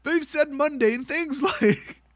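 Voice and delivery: high-pitched, barely holding back laughter; fighting real laughter. Real, not acted. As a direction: power through while cracking up. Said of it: "not gonna get a clean take".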